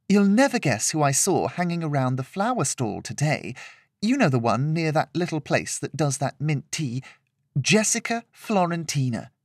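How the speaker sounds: lightly voiced gossiping visitor; gossipy chatter. Visitor gossiping to two friends about the flower stall, gossipy. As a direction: share it like juicy gossip.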